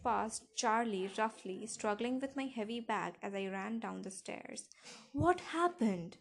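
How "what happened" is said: high, loud, drawn-out question; yelling. A narrator's reading. Father right behind his daughter on the stairs, yelling. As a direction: yell it slowly in demand. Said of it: "he yelled".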